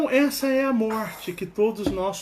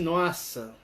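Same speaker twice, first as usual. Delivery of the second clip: amazed wow; 2 semitones lower, 4 dB quieter than usual. Retold or imitated. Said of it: "eu vou ficar assim".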